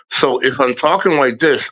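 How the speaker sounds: restricted, slightly whistled speech; impeded nerve-locked speech. Shown as a demonstration. Showing viewers when the mask is needed, impeded speech. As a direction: talk with the mouth not opening fully. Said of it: "I wear the mask".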